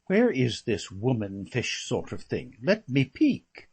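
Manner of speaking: mock nosy aunt. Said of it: "They're all chasing round saying".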